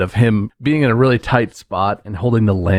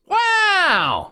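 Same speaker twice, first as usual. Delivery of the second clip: very high, exuberant put-on genie voice; Robin Williams genie. Genie bursting forth from the lamp, hammed-up high exclamation. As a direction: pop out with a high, drawn-out wow. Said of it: "It's by Robin Williams".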